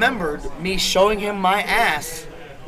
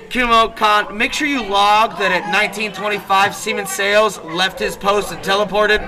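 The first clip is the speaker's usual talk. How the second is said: deadpan loud order; 3 semitones higher, 5 dB louder than usual. Retold or imitated. Chief calls out the log, deadpan.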